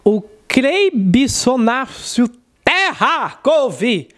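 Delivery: solemn preacher reading a name he can't make out; pastor's pulpit announcement, drawn out slow; pastor announcing. Retold or imitated. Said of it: "o pastor fazendo a apresentação".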